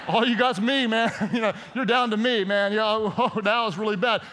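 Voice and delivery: God chuckling at your last resort, half laughing; a hint of a laughing God mocking the last resort. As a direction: play God amused and teasing, laughs breaking in. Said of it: "imagine God up in heaven going".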